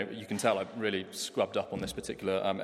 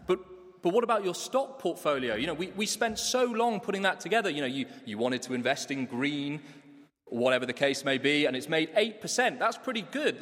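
a pitched-up, anxious plea about the portfolio; pleading protest; 3 semitones higher than usual. Acted. Planner pleading with his client over the portfolio, high anxious protest. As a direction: push back, rising higher as the panic grows. Nigel protesting being told to cash in.

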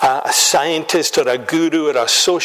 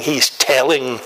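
telling leaned on, falling; stress on telling; 3 semitones lower than usual. Shown as a demonstration. Preacher setting telling against suggesting, stressed. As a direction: land hard on the word telling. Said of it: "not suggesting, hinting, nodding or winking".

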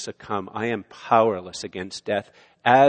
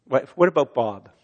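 movie quote; 2 semitones higher, 4 dB louder than usual. Pretend. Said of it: "I really like that Bill Murray movie".

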